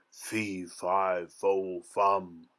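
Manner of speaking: lightly voiced giant muttering to himself. A narrator's reading. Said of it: "muttering under his breath".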